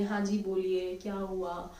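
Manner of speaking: soft, kind "हाँ जी बोलिए"; polite and gentle. Shown as a demonstration. Teacher shows students how to answer patients politely, softly. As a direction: answer sweetly, like a caring nurse. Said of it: "प्यार से बोलिए".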